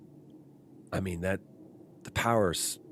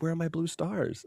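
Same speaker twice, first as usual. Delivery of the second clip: put-on toddler voice; 9 semitones higher than usual. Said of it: "He was like".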